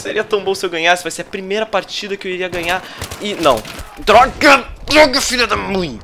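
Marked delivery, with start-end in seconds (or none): 4.0-6.0 high, loud frustrated cursing; angry shout. Real, not acted. Streamer furious after being overtaken, shouting. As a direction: yell the curse at the screen. Streamer loses lead, curses.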